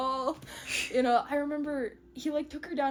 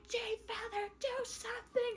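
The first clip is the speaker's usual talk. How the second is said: high, hushed desperate plea; imitating a distraught mother; mock distraught; 10 semitones higher, 7 dB quieter than usual. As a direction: plead in a high, thin voice. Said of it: "is distraught".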